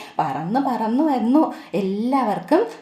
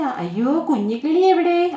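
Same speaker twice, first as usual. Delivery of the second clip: worried mother bird; 3 semitones higher than usual. Acted. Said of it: "അമ്മക്കിളി ചോദിക്കുവാണേ".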